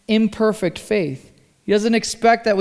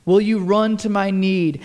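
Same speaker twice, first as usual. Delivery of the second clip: pleading. Retold or imitated. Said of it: "he's pleading with Jesus".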